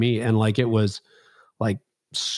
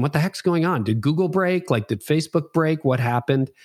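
mock panic; 5 semitones higher than usual. Panicked questions to his team.

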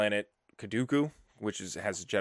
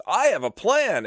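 eager announcement; 10 semitones higher, 7 dB louder than usual. Retold or imitated. Poe cutting in confidently.

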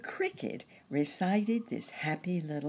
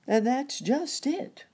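higher, louder burst of frustration; exclaiming; 12 semitones higher, 7 dB louder than usual. A narrator's reading. Uncle Wiggily answering Nurse Jane, exclaiming. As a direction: exclaim it with raised pitch and force. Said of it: "exclaimed Uncle Wiggily".

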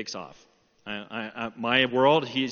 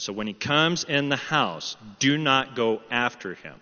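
slow, measured instruction; firm command; 4 semitones lower, 3 dB louder than usual. Retold or imitated. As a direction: lay down the order word by word. God's command to the angry father.

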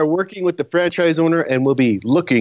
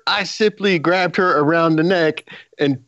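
mock politician denial; 4 semitones higher than usual. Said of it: "you sound like Bill Clinton".

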